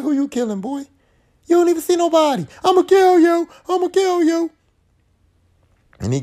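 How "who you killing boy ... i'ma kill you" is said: mock killer voice. Voicing Tina's killer.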